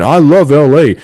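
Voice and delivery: pander to the crowd like a gushing politician; John Cena impression. Wrestling podcaster mocking Cena working the LA crowd, crowd-pleasing impression. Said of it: "You're nailing back the, uh, impression".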